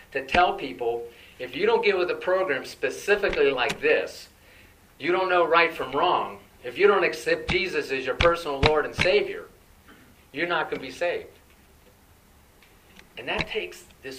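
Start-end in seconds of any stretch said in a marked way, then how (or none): 1.4-11.4 mock threatening preacher, louder. Mocking those who use the verse as a threat, louder. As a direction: hammer it like a scolding preacher. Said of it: "as a trump card to say, or a threat".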